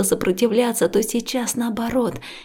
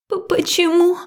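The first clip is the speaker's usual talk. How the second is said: stammered, high and louder; the voice cracks on the question; breaking voice; 8 semitones higher, 5 dB louder than usual. A narrator's reading. Liya asking Max why only in memories, voice breaking. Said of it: "Срывающимся голосом".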